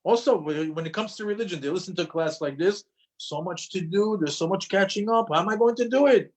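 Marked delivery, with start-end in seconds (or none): 3.2-6.3 higher-pitched mock overwhelm; raised-pitch worry, lightly acted; overwhelmed listener, mimicked. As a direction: imitate someone daunted by a long to-do list. Voices overwhelmed class listeners.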